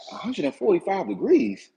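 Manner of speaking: can't believe what you just heard; incredulous echo. Retold or imitated. Echoing the cook's oven temperature back in disbelief, rising. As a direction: repeat the number as a disbelieving question, rising at the end.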